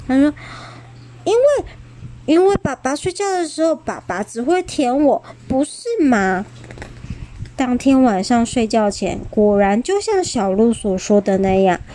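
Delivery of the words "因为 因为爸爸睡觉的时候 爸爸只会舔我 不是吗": smug boast. Acted. Xiaolu explains boastfully.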